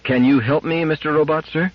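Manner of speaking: put-on high, polite child's plea; little girl. A narrator's reading. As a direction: ask the robot sweetly in a high voice. Little Gloria asks the robot.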